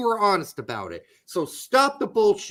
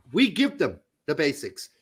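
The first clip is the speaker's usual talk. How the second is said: lower-pitched hint of a German accent; Klinsmann's German accent; 5 semitones lower than usual. Host quoting the coach's approach, light German accent. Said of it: "does a way better Klinsmann accent".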